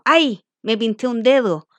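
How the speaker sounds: teacher hams up a small pain; mock pained cry. Shown as a demonstration. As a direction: act out pricking a finger. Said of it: "por eso uno lo exclama".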